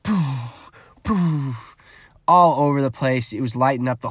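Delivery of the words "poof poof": lightning sound effect. Retold or imitated. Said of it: "just lightning bolts just".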